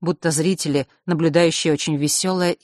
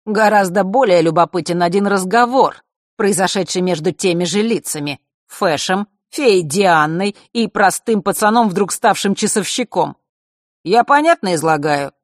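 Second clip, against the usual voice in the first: unhurried storyteller; 4 semitones higher, 5 dB louder than usual. Acted. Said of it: "тоном неторопливого рассказчика".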